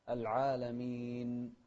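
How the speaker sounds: العالمين slow, ending on a distinct held n; clear final nun. Shown as a demonstration. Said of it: "ونوضح النون". (العالمين بنون واضحة في آخرها)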